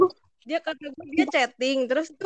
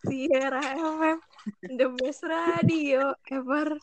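cringey radio host. Pretend. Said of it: "gue geli banget".

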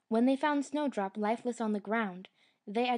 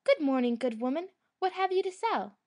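put-on raised, higher girlish call; bright calling out; 6 semitones higher, 4 dB louder than usual. A narrator's reading. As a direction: call out eagerly from the window. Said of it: "Snowdrop looked out the window and cried".

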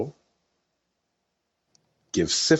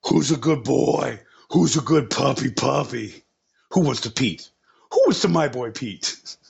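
vet talking to pet; 4 semitones higher than usual. Real, not acted. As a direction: coo at a puppy. Talking to the dog Pete.

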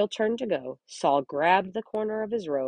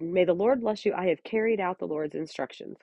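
delusional Saul; 2 semitones higher than usual. Retold or imitated. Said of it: "Saul was delusional".

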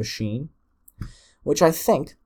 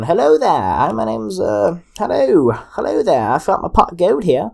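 high, loud Irish leprechaun; Irish brogue, pitched up and hammed up; really Irish accent; 8 semitones higher, 7 dB louder than usual. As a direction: play a little Irish elf. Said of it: "in, like, a really Irish accent".

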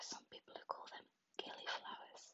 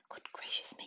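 a louder, startled whisper; whispered exclamation; 8 dB louder than usual. Acted. Old wizard seeing the flowers, whispered surprise. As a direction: gasp it out in surprise, still whispering. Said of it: "he cried".

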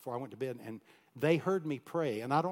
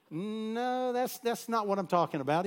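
higher, firm principal voice; principal cutting in; 9 semitones higher, 4 dB louder than usual. Retold or imitated. Principal correcting the boy's dodge, higher and firm. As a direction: set the boy straight.

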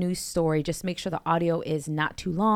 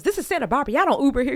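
much higher, louder imitated country accent; 8 semitones higher, 6 dB louder, faster than usual. Retelling the comedian's Santa Barbara joke in a loud, higher country accent. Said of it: "he was a real country, like, strong sound in his voice".

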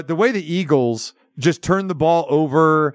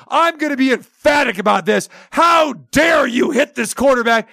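mock referee; 5 semitones higher than usual. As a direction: play the ref throwing his flag sky-high with a showy shout. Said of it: "It was like".

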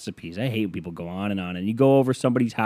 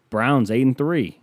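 sports-radio call; 3 semitones higher, 4 dB louder than usual. Shown as a demonstration. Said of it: "sports talk".

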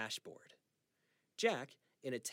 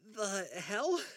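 startled; 7 semitones higher, 4 dB louder than usual. Acted. Charlie startled by broken glass.

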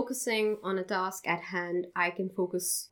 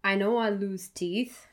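poem reading. Acted. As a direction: read it gently, like a confession. Reads her poem aloud.

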